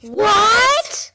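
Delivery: sudden high startled what; shocked cry. Acted. The crew stunned by the villain's reveal, shocked. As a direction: gasp it out in disbelief.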